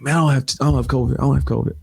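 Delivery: imitating dad. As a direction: brush it off like his father did. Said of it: "And he's like".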